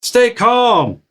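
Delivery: very high hammed-up panic; comic frantic cry, last word stretched out; panicking. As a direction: yelp orders like a boss losing it in a fire. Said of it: "they're all panicking".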